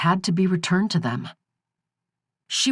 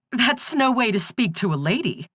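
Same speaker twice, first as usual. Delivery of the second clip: put-on teasing old crone; 7 semitones higher than usual. Corey keeps teasing in crone voice.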